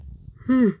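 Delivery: high sighing yawn; real yawn. Real, not acted. Narrator interrupts the story with a yawn, sighing. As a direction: let a yawn escape mid-reading. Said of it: "I yawned".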